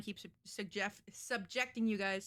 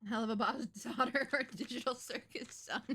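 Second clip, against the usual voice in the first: laughing; 4 semitones higher, 4 dB louder than usual. Real, not acted. Joking question, laughing midway.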